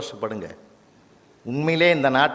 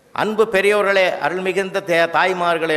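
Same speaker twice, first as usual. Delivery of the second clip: formal stage address; 3 semitones higher than usual. Retold or imitated. Judge opens debate formally.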